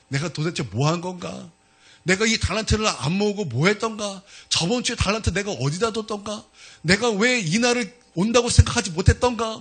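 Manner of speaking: building lament at your own foolishness; blaming oneself. Retold or imitated. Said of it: "막 스스로 막 원망하면서". (스스로를 원망하며 한탄하듯)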